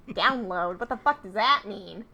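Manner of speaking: raspy villain Skeletor impression. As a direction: sneer it like a cartoon villain. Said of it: "My Skeletor voice is just my Starscream voice".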